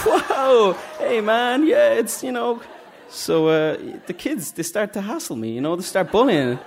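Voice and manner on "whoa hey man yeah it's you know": much higher, louder cheesy superhero entrance; hammed-up Spider-Man. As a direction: burst in like a bad party-entertainer hero. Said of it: "I was like".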